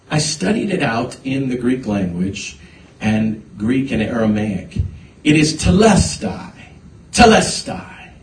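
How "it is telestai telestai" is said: preacher's declaration. Real, not acted. Preacher declares the Greek word.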